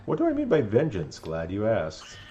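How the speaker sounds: gloating ghost villain with cackle; King Boo. Acted. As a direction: sneer it like a smug ghost king. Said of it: "King Boo".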